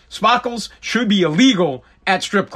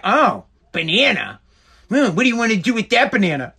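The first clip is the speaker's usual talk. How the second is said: mock insinuating wife; 3 semitones higher than usual. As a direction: linger on banana with a knowing hum. Mocking wife's insinuation.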